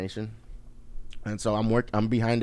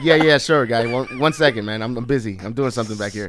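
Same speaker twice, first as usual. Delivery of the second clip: retold hurried dismissal of a customer; busy brush-off; 3 dB louder than usual. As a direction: act too busy to look up.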